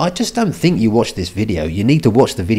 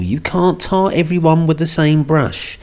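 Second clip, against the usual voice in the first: imitated female voice, raised pitch; put-on woman's voice; 6 semitones higher than usual. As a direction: read it out as a woman would, pitched up. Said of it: "I'm gonna read it in a woman's voice".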